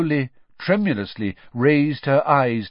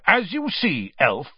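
raised, official accusation; stern; 3 semitones higher, 5 dB louder than usual. A narrator's reading. Official questioning the elf about the mark, stern. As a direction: lay out the charge sternly. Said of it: "said Mister Diggory sternly".

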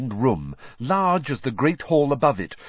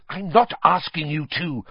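impatient; 6 semitones higher than usual. Acted. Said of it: "Hermione said impatiently".

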